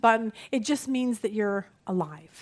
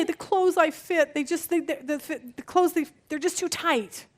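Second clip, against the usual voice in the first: mock complaint in a higher voice; complaining; 4 semitones higher than usual. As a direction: play a mildly fussy grumbler. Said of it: "we complain about that".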